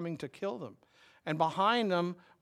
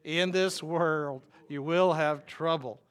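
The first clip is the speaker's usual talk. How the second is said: slow, louder lead for the crowd to echo; call and response; 5 dB louder, slower than usual. Shown as a demonstration. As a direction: lead the room through it slowly and loudly. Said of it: "Say that with me".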